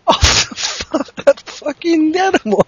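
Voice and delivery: incredulous. Real, not acted. Friend questioning the fanfic in disbelief. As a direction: ask it in laughing disbelief.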